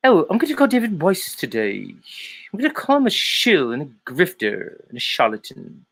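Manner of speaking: mock the husband announcing his plan; Nathan Oakley. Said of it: "Nathan Oakley and his phone call".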